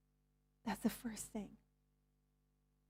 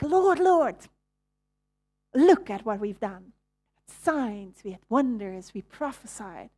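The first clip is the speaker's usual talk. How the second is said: pleading crowd; 5 dB louder than usual. Acted. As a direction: plead your deeds like the desperate crowd. People pleading with Jesus.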